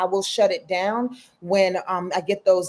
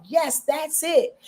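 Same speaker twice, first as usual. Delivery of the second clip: slow approving voice; 5 semitones higher, much slower than usual. Retold or imitated. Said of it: "and she's like".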